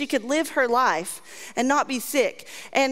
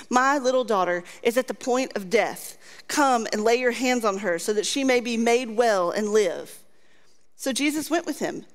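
scripture reading; 2 semitones lower than usual. Acted. Reads scripture aloud.

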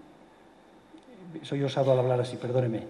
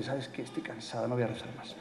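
soft, worn-out grumble to God; weary complaint; 6 dB quieter than usual. Shown as a demonstration. A tired believer complaining to God, soft and weary. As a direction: let the tiredness sag in the voice. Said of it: "en quejarse con Dios y decirle".

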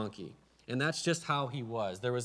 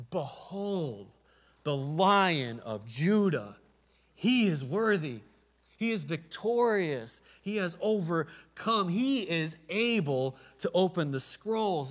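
slow, solemn, louder and higher proclamation; loud proclaiming cry; 5 semitones higher, 4 dB louder, slower than usual. Retold or imitated. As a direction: announce it like a herald crying out in heaven. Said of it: "an elder cries loud voice".

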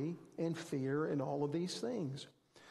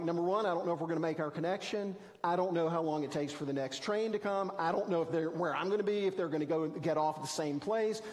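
anxious meltdown; faster than usual. Retold or imitated. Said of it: "having a meltdown".

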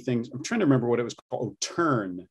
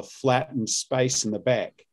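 Australian demo; slower than usual. Shown as a demonstration. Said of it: "the Australian tends to have".

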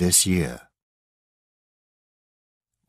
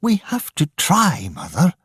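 angry; 11 semitones higher than usual. Acted. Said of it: "said Grace angrily".

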